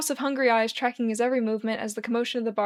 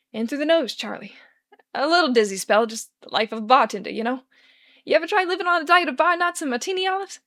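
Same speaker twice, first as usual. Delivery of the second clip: Charlie voice; 4 semitones higher, 5 dB louder than usual. Acted. Charlie bluffing to Scottish man.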